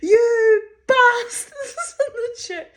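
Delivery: imitating mother shrieking at the man; screaming. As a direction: yell it at him, half laughing. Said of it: "she starts screaming at him".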